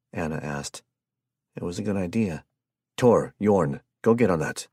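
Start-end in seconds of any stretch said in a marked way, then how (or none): 3.0-4.7 loud commanding order. Acted. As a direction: bark out the orders. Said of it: "Sten ordered".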